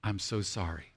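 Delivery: soft, low model apology; humble apology. Shown as a demonstration. Preacher leading congregation in practising an apology, humbly. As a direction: offer it gently for others to repeat. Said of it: "would you say it with me?".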